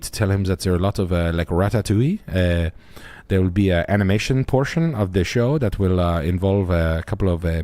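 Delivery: lightly put-on French accent, halting with uh; a hint of a hesitant Frenchman riffing; understated French accent, lots of uh; French guy bit. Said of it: "your French guy bit".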